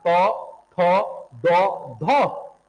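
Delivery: तो, थो, दो, धो said singly, tongue on the teeth; dental sounds. Shown as a demonstration. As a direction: demonstrate तो, थो, दो, धो as separate dental syllables. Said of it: "दांत में".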